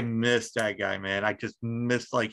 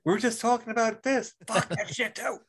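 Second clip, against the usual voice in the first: Lewis Black quote; 9 semitones higher than usual. Retold or imitated. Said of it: "I'm like".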